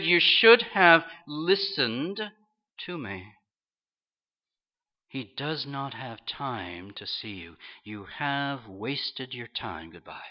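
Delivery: slow, smug told-you-so; secretary gloating at the turned-away preacher, slow and smug. Retold or imitated. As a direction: drag it out to rub it in. Secretary gloating after the boss refuses.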